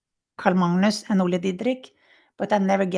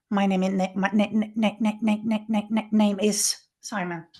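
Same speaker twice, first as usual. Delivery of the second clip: lightly mimicked stammer on na- na- na-; a nurse stammering his name, imitated lightly; imitating a stammer. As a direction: stutter through the name, slowing at the end. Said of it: "It was like that".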